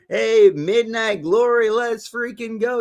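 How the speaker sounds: high, slow, stretched hype call; hyped greeting. Real, not acted.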